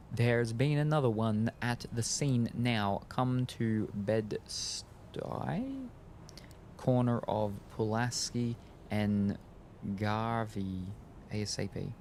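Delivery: slow, halting read of a scrawled note; note read aloud. Acted. Game master reads the note pinned to the door, slow and deliberate. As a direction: spell it out slowly, word by word.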